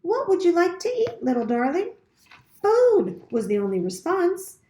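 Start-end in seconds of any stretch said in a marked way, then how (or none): 0.0-1.9 friendliest voice. A narrator's reading. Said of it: "using her friendliest voice". 2.6-3.2 high, louder chick cry; a starving chick squeaking for food; hungry gosling. A narrator's reading. Hatchling answers robot.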